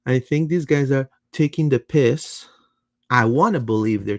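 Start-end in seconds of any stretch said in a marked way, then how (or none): 0.1-2.5 put-on British accent. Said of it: "in a British accent".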